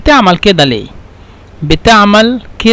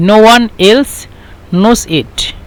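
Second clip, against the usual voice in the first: slow English gloss; 3 semitones higher, much slower than usual. Shown as a demonstration. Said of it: "لا أحد يعلم غيري".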